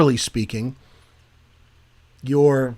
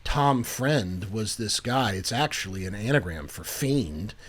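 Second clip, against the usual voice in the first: demeaning lady teacher; 3 semitones lower, 5 dB quieter than usual. Retold or imitated. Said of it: "being like".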